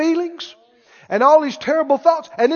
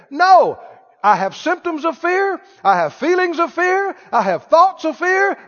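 defiant; 5 semitones higher than usual. Acted. Defiant answer to the taunting enemy.

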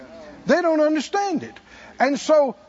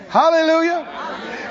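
hallelujah cry; 4 semitones higher, slower than usual. Real, not acted. Preacher's exclamation.

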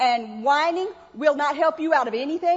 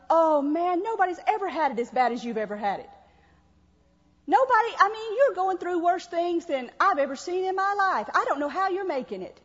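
mock cuddling. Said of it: "just cuddle them".

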